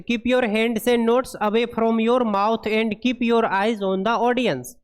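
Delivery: very slow, word-by-word reading of English text; deliberate classroom read-aloud; slow dictation read. Acted. Reads English guideline aloud.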